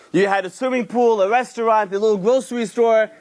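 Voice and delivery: usual speaking voice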